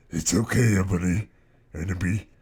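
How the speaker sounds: a touch of hammed-up comfort. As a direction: soothe her like a tender vampire. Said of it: "said Vampire comfortly".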